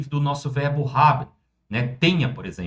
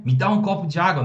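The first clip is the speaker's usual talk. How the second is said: higher-pitched, insistent request; urgent demand; 4 semitones higher, faster than usual. Shown as a demonstration. Teacher translating the urgent plea for water, insistent demand. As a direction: demand it as if it cannot wait. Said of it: "é, é urgente".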